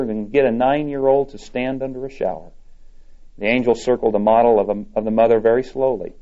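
reading a story aloud to the congregation. A narrator's reading. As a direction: tell the tale gently, voicing the Lord and the angel lightly. Reads Reader's Digest story aloud.

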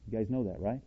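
ordinary delivery

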